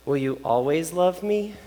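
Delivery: slow, softly rising question; tearful child, imitated. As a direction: lightly imitate a daughter needing reassurance. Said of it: "she starts to cry a little bit".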